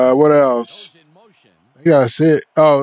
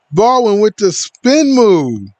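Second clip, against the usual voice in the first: character voice; 5 semitones higher, slower than usual. Acted. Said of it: "that's just my character voice".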